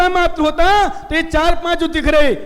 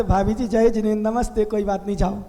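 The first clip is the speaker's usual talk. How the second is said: gentle shopkeeper; 6 semitones lower, 4 dB quieter, faster than usual. Retold or imitated. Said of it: "तो भाई साहब कहते".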